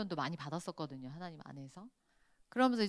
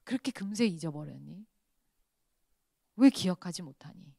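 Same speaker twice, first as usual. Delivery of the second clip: 탄식; 2 semitones lower than usual. Retold or imitated. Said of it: "탄식하심으로 얘기하세요".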